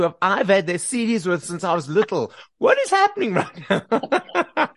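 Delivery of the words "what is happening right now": high, slow amazed question breaking into a laugh; a fan chatting with childhood idols, amazed and laughing; giddy disbelief. Retold or imitated. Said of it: "See, you understand the feeling".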